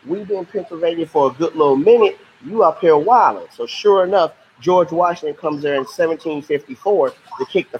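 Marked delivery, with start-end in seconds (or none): 0.0-3.5 higher, casual mock British scolding; teacher voicing the British telling off the French; indignant British. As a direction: act the British calling out the French. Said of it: "And the British are like".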